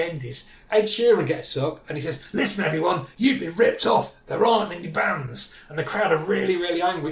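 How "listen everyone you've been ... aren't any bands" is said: mock announcement. Retold announcement to an angry crowd.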